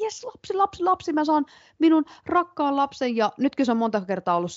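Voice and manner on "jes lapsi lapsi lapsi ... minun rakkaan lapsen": acted thrilled, eager, excited voice, pitched up. Recalling how the mother eagerly awaited a child, imitating mother's eager excitement. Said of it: "se on niin kuin innolla odottanut".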